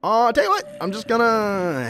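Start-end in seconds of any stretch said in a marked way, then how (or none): none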